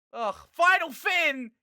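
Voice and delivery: high, loud, slow groaning cry; loud drawn-out disgust; disgusted outcry. Real, not acted.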